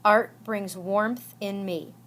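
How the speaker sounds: "Art brings warmth in me" slowly, word by word; measured syllables. Shown as a demonstration. Teacher reading an example line, "Art brings warmth in me" in slow beats. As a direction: give each beat of "Art brings warmth in me" its space. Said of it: "Five syllables".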